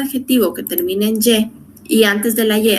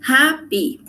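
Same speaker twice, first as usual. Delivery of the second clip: "Happy" split into two beats, HAP-PY, raised pitch; "Happy" in two separated syllables, higher then falling; 4 semitones higher than usual. Shown as a demonstration. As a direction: sound out "Happy" one syllable at a time. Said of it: "dos sílabas".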